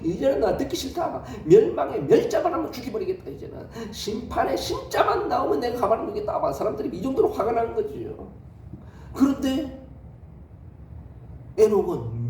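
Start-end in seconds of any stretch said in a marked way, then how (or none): 0.0-6.4 mock threat. Angry people threaten Enoch.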